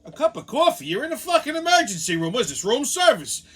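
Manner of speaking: high, loud incredulous rant; exasperated yell. Retold or imitated. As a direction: blow up at the absurd request. Angry reply to mother.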